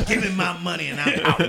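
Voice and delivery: loud laughing delivery. Real, not acted. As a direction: blurt it out through laughter. Laughing at a joke.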